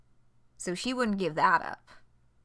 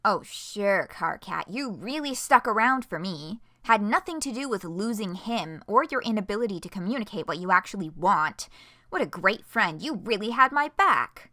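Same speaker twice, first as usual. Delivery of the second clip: sarcastic; 4 dB louder than usual. Acted. Sarcastic jab in read dialogue.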